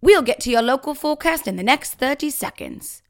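sweet fairy tale princess; Princess Diana voice. Retold or imitated. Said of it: "I'll say it with a Princess Diana voice".

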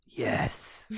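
whispered yes. Acted. Virus voice whisper.

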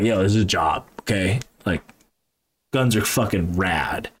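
a lightly voiced chill field agent; imitating field agent. Quoting his field agent.

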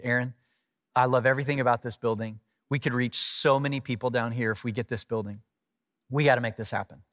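low, softened, smiling sincerity; quietly won over, with a smile in it; smiling earnest friend. Retold or imitated. Friend urging pastor to go for the building, warmly. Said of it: "gets this big smile on his face".

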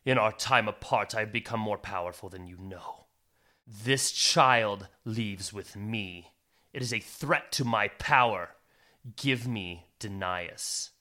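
a villain looming over the mother; menacing dark sorcerer. Acted. Galdrin grows imposing, threatens.

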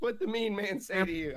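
put-on high-pitched babying; mock cooing comfort. Big lady cuddling a wronged customer, mock-soothing. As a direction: coo at him like a hurt child.

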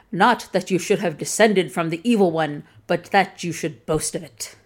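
lightly voiced pompous knight; knight's speech. Knight grudgingly praising the Saracen, lightly hammed. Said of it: "the knight concedes".

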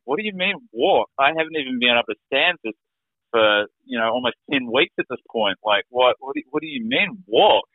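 retold alarmed protest, pitch jumping up; fearful disbelief. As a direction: protest as if scared to try. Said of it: "you hear the fear in my voice".

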